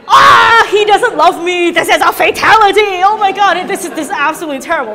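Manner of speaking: high, loud, shouted mock despair; a hammed-up shouted lament over an unanswered I love you; melodramatic heartbreak. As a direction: overplay the heartbroken lover for laughs. Acting heartbroken texter.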